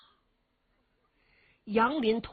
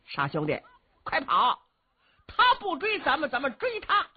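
excited call; 5 semitones higher than usual. A narrator's reading. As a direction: urge him on, turn the chase. Qin Qiong calls during chase.

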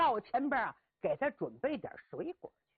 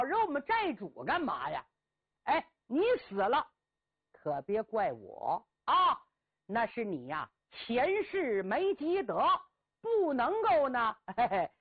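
lightly voiced swaggering bandit with a chuckle; mocking bandit. Bandit taunts the captive scholar, lightly voiced with a mocking chuckle. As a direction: taunt him like a cocky brigand about to strike.

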